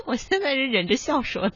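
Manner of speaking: talking through held-back laughter; barely holding in a giggle; stifled giggles. Real, not acted.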